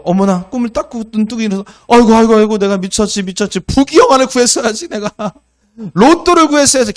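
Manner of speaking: high, loud hammed-up lament over a missed wish; mock regretful wailing. Preacher mocking Solomon's greedy regret, hammed-up wail. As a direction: ham up kicking yourself for not asking for riches.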